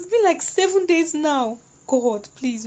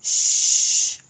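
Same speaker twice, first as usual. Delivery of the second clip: hushing whisper. Acted. A friend hushing the dying Anita in a whisper. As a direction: hush her gently, voiceless.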